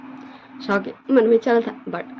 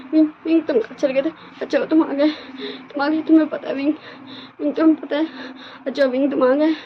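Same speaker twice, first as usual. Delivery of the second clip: tearful pleading; 8 semitones higher, faster than usual. Acted. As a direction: beg through tears, voice pitched up and breaking. Long-lost friend begs forgiveness, crying.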